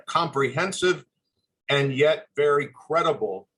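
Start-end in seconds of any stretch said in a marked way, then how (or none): 1.7-3.5 sincere emphasis on credible for students; stress on credible. Real, not acted. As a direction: give the word credible a firm push. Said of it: "And I emphasize the word credible".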